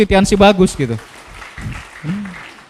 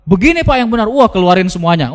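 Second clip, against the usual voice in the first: arguing insistently; 2 semitones higher than usual. Retold or imitated. Salesperson arguing with prospect.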